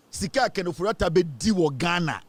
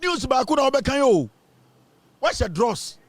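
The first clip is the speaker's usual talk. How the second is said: mocking cry; 7 semitones higher, 3 dB louder, slower than usual. Mocking chant, laughing.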